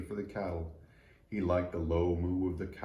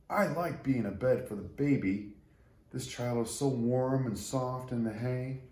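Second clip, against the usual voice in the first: a lightly voiced happy tree cradling the baby; tender little tree; 4 semitones higher than usual. Tree speaking of the baby in its hay, lightly voiced and tender.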